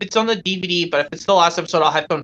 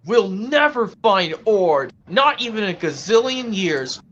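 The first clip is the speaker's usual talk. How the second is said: despairing cartoon character; 3 semitones higher than usual. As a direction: stretch it out in mock despair. Acted scene, friend despairing.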